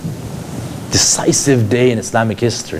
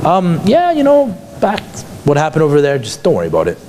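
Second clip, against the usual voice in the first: mock offhand; 2 semitones higher than usual. Shown as a demonstration. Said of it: "Or was she pleading and begging?".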